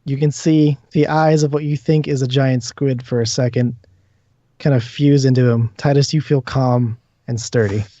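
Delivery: measured, phrase-by-phrase narration; game master's scene setting. Acted. Game master describes ghostly tentacles calming a player, measured narration. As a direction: describe the vision steadily, pausing between images.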